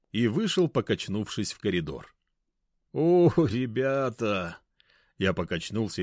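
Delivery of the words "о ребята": put-on slow, slurred drunken greeting; fake drunk. Narrator faking drunkenness to the couple, slurred. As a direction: play tipsy and overjoyed. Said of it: "изображая пьяного".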